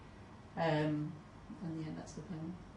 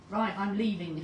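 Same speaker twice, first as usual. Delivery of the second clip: put-on louder, flustered old lady walking out; confused lady; 3 semitones higher, 6 dB louder than usual. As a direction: huff off indignantly. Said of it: "says the confused lady".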